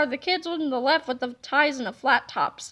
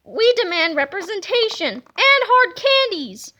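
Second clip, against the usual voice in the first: put-on grumpy old folks; 4 semitones higher than usual. Grouchy old people protest.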